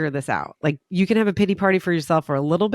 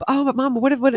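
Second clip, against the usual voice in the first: put-on whiny little kid; 7 semitones higher than usual. Son whining, voiced higher.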